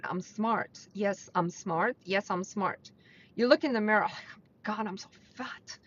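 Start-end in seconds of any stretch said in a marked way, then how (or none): 0.0-2.9 softer and slower "I'm smart", meant sincerely; with intention. Shown as a demonstration. Coach showing listeners the right way, softer sincere self-talk. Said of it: "with intention". 4.1-5.8 mirror self-criticism. Retold or imitated. Acting out negative mirror self-talk.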